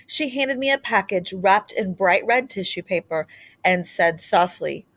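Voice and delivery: gentle, expressive storybook reading; reading to children. Acted. Teacher reading a storybook aloud to children, expressive. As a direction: read it aloud like a picture book to a class. Reads a picture book aloud.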